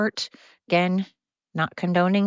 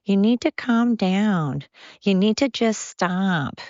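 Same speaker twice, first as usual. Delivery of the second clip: quoting a singer; 3 semitones higher, slower than usual. Retold or imitated. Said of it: "as Taylor Swift says".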